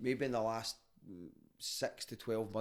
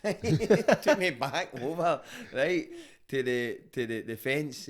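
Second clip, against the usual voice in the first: laughing; 4 semitones higher, 8 dB louder, slower than usual. Real, not acted. Laughing while retelling.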